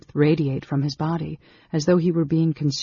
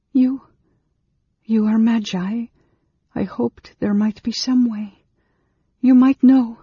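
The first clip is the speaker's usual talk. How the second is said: high, halting earnest appeal; pleading woman; 8 semitones higher, 6 dB louder than usual. A narrator's reading. Anne Beryl hoping the magi might know, high and pleading.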